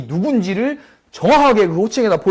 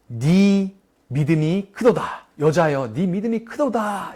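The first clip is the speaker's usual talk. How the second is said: solemn praise; slower than usual. Pretend. Jesus praises the woman.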